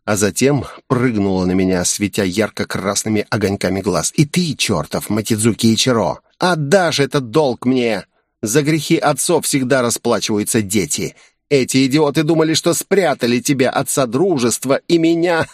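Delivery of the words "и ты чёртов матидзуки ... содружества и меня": a hint of a spiteful demon voice; lightly voiced vengeful demoness; menacing demoness. Demoness threatens the hero.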